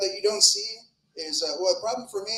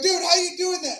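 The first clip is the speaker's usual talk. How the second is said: high, incredulous mock kid voice; pitched-up astonished question; amazed kid; 11 semitones higher than usual. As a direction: ask it like an awestruck kid. Acts out amazed kid questioning him.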